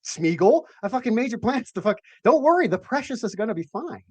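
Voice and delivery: high, jokey bro comeback; lightly voiced bro answering Gollum; mock reply to Gollum. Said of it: "And it's just like".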